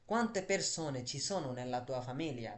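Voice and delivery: very slow and a little quiet; slow careful dictation; slow model question. Shown as a demonstration. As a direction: read it slowly for learners. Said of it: "teacher models question slowly".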